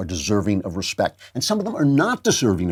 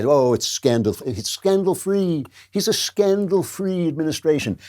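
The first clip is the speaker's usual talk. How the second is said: mock gushing press; 5 semitones higher than usual. Mocking the press's praise of Obama.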